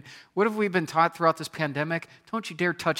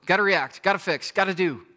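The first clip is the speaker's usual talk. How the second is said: much higher, louder, rushed panic; frantic panic; 5 semitones higher, 7 dB louder than usual. Retold or imitated. Preacher mimics a congregant overwhelmed when life hits the fan. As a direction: sound like everything is on fire. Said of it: "you're like".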